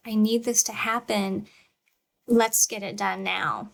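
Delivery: calm, firm and honest parent voice; steady assertive parent talking to child. Shown as a demonstration. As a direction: model a calm but firm complaint. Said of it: "And this is assertive communication".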